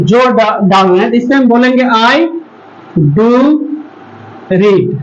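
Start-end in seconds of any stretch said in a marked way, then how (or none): 1.8-4.9 spaced-out I... Do... read; stress on do. Shown as a demonstration. Teacher spacing out an emphatic example for students. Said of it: "do read क्यों लगाएंगे".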